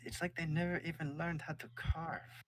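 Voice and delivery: mocking outsiders who can't carve; king's voice. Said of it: "He says".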